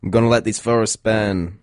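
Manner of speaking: very nasally Aussie impression; nasal Australian accent. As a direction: do Australian through the nose. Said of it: "it's, like, very nasally".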